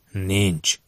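grating like stone on stone. A narrator's reading. Dan answers the kidnapper about her identity, grating. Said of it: "Dan hangja úgy csikordult, mint kő a kövön".

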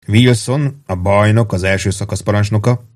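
light, deliberate emphasis on "bajnok"; stress on BAJNOK. A narrator's reading. Warden lists the platoon leaders, pointedly stressing "bajnok". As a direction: set "bajnok" apart and weight it. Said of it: "nyomatékosan hangsúlyozva a bajnokot".

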